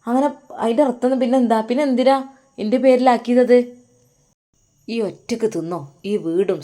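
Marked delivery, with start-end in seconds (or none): 0.1-3.6 indignant demand. Acted. Husband retorts in property quarrel.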